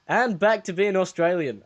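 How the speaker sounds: badly faked Australian accent; mock Australian accent. Failing at a dub voice, put-on Australian accent. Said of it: "Terrible at the accent".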